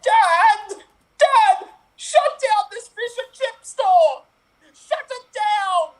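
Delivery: put-on young fish yelling to his father in panic; Nemo calling dad. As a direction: yell for help across the reef.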